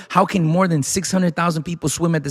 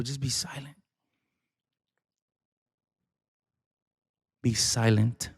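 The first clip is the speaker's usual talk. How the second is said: soft, much quieter, calming the crowd; hushed command; 4 semitones lower, 9 dB quieter than usual. Acted. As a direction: hush them gently. Moses hushing the people.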